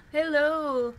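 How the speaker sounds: high, bright gasped hello; delighted to be greeted, gasp then call out; excited greeting. Real, not acted. Greeting viewer from Tokyo.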